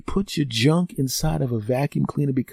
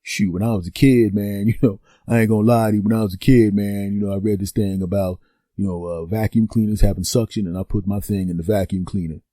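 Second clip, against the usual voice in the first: imitating the friend; 5 semitones lower than usual. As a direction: slip into the buddy's laid-back confession. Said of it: "he said".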